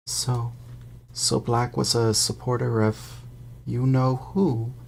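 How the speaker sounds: lightly voiced gossiping bus conductor; a hint of eager young conductor; Stan's voice. Stan gossiping to Harry on the bus, lightly voiced.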